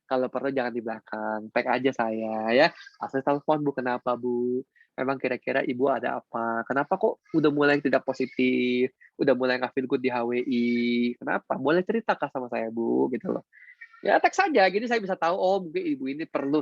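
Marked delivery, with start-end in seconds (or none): 3.0-13.1 gentle concern. Acted. Coach gently asks upset member.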